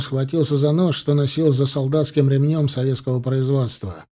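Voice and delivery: ordinary delivery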